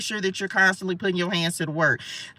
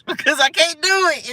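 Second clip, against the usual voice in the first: laughing; 8 semitones higher, 3 dB louder than usual. Real, not acted. Laughing at herself.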